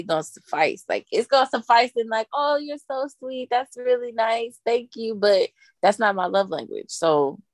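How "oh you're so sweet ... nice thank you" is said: slow, slightly raised polite sweetness; polite thanks. Acted. Thanking someone for a gift that merely suffices, politely sweet. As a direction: act out measured, courteous gratitude.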